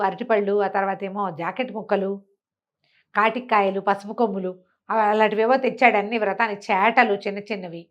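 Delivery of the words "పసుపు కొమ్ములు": usual speaking voice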